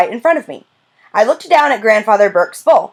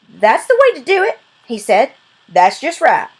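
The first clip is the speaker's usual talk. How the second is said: a hint of a proud old man, higher; lightly voiced grandfather; 4 semitones higher than usual. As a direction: grandfather praising the girl for eating. Grandfather praises girl.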